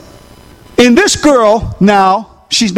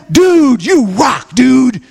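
surfer cheer; much slower than usual. Retold or imitated. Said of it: "they said to him".

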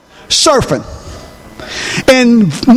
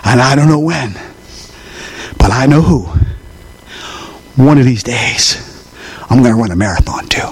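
quiet resolve; 11 semitones lower, 3 dB quieter than usual. Retold or imitated. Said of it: "he says".

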